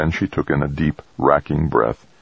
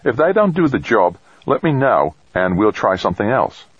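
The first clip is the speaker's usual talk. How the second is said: lightly voiced character; 6 semitones higher than usual. A narrator's reading. V J voiced in narration.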